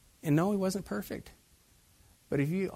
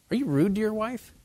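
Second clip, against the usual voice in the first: higher, louder challenge; a direct preacher's challenge; pointed question; 5 semitones higher, 5 dB louder than usual. Real, not acted. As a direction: put the question straight to them. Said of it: "pointed question to the men".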